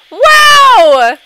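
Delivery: loud, high, drawn-out wow; offended outburst. Real, not acted. Player just called ugly, loud offended outburst. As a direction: cry out in high-pitched indignation.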